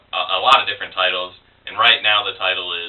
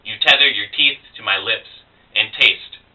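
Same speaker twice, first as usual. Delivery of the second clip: poem recitation. Acted. Poet reading a dark love poem about cutters, poem recitation. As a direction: recite with weighted words and falling line ends.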